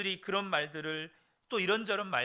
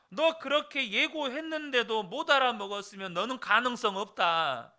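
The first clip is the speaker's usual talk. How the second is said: scolding God; 2 semitones higher than usual. Retold or imitated. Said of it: "화를 내시면서 말씀을 하셨어요".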